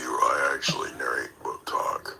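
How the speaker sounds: whisper. Real, not acted. Whispers in every line.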